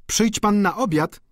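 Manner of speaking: high, bright invitation; countess voice. A narrator's reading. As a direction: call after him to dinner.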